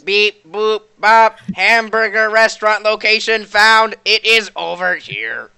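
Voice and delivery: lightly voiced robot; beep-boop robot read. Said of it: "said in a robot voice".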